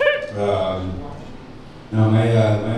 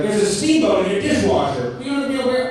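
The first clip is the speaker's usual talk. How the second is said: mock a twangy lyric, pitched up; mock Southern singer; 10 semitones higher than usual. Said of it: "I'll be like".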